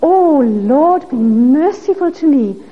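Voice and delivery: heartfelt, drawn-out cry to God. Acted. Publican pleading with God for mercy, crying out. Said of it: "was to cry out".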